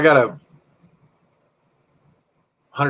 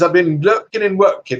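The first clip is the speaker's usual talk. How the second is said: higher-pitched imitation British accent; 6 semitones higher than usual. Streamer quoting a British viewer back, in an imitation British accent. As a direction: put on a playful British accent. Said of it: "I learned not to do a British accent to him".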